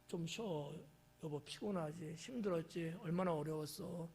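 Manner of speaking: soft, gentle welcome home; tender spouse. Acted. Spouse greets tired partner, soft and tender. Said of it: "이렇게 따뜻하게 하면".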